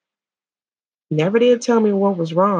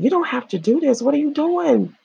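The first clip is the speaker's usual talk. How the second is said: retold pleading; 9 semitones higher than usual. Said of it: "I immediately started saying".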